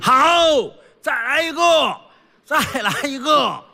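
high-pitched calls for an encore; imitated audience encore chant; audience cheering. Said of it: "在底下观众就知道喊的一句".

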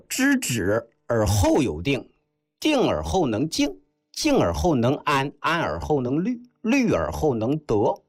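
measured recital, each clause set apart; classical quotation recited. Acted. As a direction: quote the classic deliberately, clause by clause. (一句一顿地诵读经典)

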